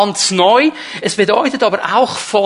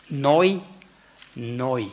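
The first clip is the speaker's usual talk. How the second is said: "Neu" leaned on, then said again softer and lower; stress on neu; 7 semitones lower, 6 dB quieter than usual. Shown as a demonstration. Pastor driving home the word "neu" to the congregation, emphatic. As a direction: dwell on "Neu", let the repeat fade. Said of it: "Die Betonung liegt hier auf neu".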